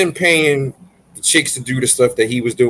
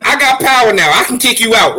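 laughing mock bossiness; 7 semitones higher than usual. Real, not acted. Mock power trip at cohost.

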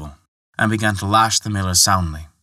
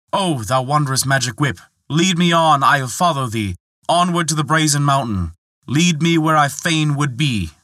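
grand incantation; 5 semitones higher, 4 dB louder than usual. Acted. Prince commands the magic whip.

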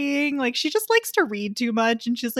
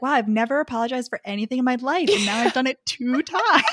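amused quote. Retold or imitated. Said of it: "he's like".

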